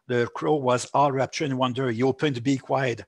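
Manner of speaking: English read with a French accent; accent français en anglais. Shown as a demonstration. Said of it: "surtout avec mon accent anglais". (anglais lu avec un accent français)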